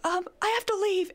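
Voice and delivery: retold quote. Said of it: "I was like".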